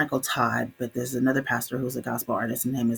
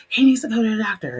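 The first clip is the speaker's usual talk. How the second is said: mom insisting; 9 semitones higher, 8 dB louder, faster than usual. Retold or imitated. Mom's urgent reply, retold.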